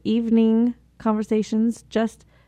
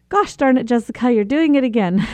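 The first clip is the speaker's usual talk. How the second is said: self-catching scold; 3 semitones higher than usual. Retold or imitated. Speaker to herself when running late, lightly exasperated. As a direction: catch yourself mid-habit with a rueful scold. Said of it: "and I say".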